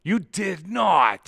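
slow, drawn-out "you did not"; high, loud and stretched out; mock disbelief. Real, not acted. Disbelief at the Timbits claim.

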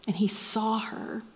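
a tender whispered aside; hushed whisper. Acted. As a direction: whisper it softly. Tender point in sermon.

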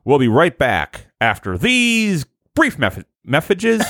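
slow, high TV announcer voice; hammed-up break-time announcement; mock announcer. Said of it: "I'm gonna throw it to".

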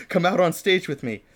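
high, loud eager invitation; excited. Acted. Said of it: "He turned to me excitedly".

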